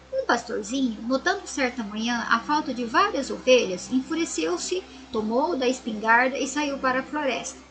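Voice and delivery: storybook reading voice for the class; story narration. A narrator's reading. Teacher reading a fable to her pupils, storybook voice. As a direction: read the fable aloud to children.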